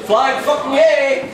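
slow, elated cheer; excited cheer. Real, not acted. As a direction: whoop it out happily.

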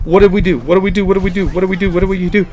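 high, loud, repeated in shock; real stunned shout; loud disbelief. Real, not acted. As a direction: cry out what went wrong.

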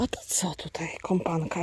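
soft whisper to a pet; whisper to dog. Real, not acted. Owner whispers to her dog companion, soft whisper.

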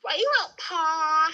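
imitating southern accent. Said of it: "he said".

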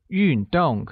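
运动 with a fall on both syllables; teacher's model 运动, two clear falls; falling tones. Shown as a demonstration. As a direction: drop the pitch on 运 and on 动. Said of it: "pronounced using a falling tone on both U and O".

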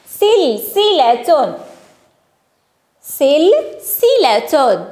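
very slow, syllable by syllable; slow sounding-out. Shown as a demonstration. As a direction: stretch the word so each sound stands out. Teacher stretches the written word.

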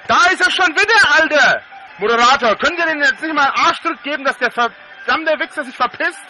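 loud high furious yell; berserk rage. Real, not acted. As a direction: explode at the returning troll. Troll returns, yells at moderator.

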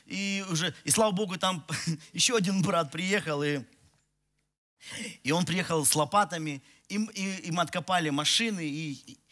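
ordinary talk

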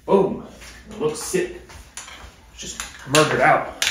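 high, loud exclamation of triumph; excited hype. Real, not acted. Showing viewers the freshly painted gear, excited hype. Hyping the finished paint result.

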